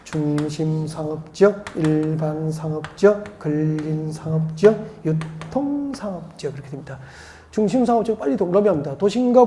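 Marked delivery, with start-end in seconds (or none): 0.0-6.5 slow, lower chant of the four zones; slow teacher's drill; slow recitation. Shown as a demonstration. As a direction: spell each zone out slowly for the class. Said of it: "같이 합시다".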